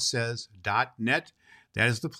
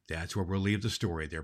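plain reading voice

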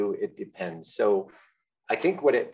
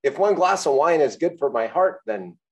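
eye roll; 7 semitones higher, 5 dB louder than usual. Retold or imitated. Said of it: "I just did an audible eye roll when you said that".

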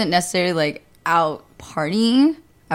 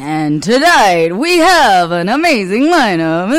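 1920s announcer; 6 dB louder, slower than usual. Acted. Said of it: "nineteen twenties announcer voice".

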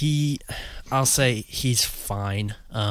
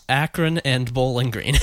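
stretched-out words; 2 semitones higher, 3 dB louder than usual. Real, not acted. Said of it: "as I stretch out my words".

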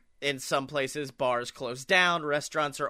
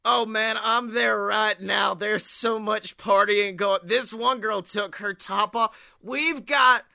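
lightly voiced party rocker; a rock singer; 4 semitones higher than usual. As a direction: brag a bit higher, partying. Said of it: "It's me, the rock singer".

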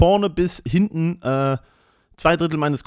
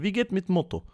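mock broken German, pitched higher and soft; imitating barber's broken German; 5 semitones higher, 4 dB quieter than usual. Barber asking about the motorbike, imitated in broken German. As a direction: ape the barber's clumsy question, pitched up. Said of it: "fragt er immer".

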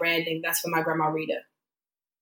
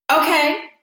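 mock annoyed; 6 semitones higher, 3 dB louder, slower than usual. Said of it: "I was pissed".

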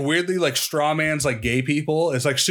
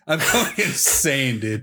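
slow, laughing mid-phrase; laughing through it; 2 semitones lower, slower than usual. Real, not acted. To his friend about a silly wiki page, laughing. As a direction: break into a laugh on the words.

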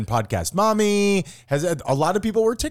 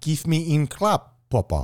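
mock sultry. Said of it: "is that actually how you say that".

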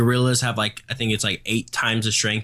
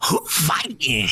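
soundboard drop; 2 semitones higher, slower than usual. Pretend. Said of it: "then you do the, the follow-up".

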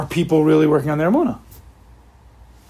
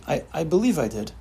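softer, hesitant I, I believe I did; doubtful half-answer; unsure belief; 6 dB quieter than usual. Shown as a demonstration. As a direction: hedge it, not really sure. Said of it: "use believe in the total opposite way".

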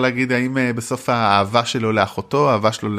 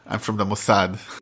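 put-on slow, heavy Israeli accent in English; 4 dB quieter, much slower than usual. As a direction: drawl it like an Israeli agent. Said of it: "הלוואי ויהיה אחד במבטא ישראלי".

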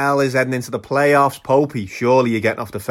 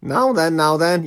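Jimmy Savile impression; 4 semitones higher, slower than usual. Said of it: "fancy dress party as Jimmy Savile".

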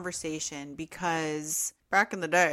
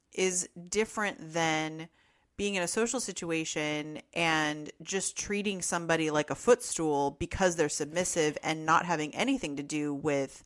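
normal talking voice

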